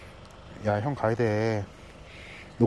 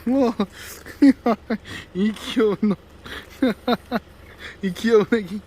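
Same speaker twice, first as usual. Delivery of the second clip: high-pitched cooing, giggling; 8 semitones higher than usual. Real, not acted. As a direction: coo over an adorable puppy. Fawning over puppies, baby talk.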